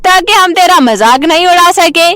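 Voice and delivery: mocking neighbour. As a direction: sneer at the dark-skinned bride. Sharda gloating taunts.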